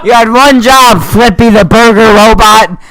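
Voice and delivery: high, loud laughing taunt; mock the robot through laughter; laughing mockery. Real, not acted.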